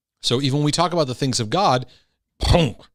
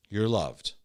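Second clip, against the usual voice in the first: the same words, much softer, almost a hush; softer, hushed reassurance; 4 semitones lower, 6 dB quieter than usual. Acted. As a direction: let "You're loved" fade into a gentle hush. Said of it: "mercy comes in and goes".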